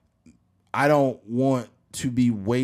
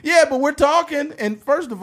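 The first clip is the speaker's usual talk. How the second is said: laughing; 6 dB louder than usual. Real, not acted. Laughing through words.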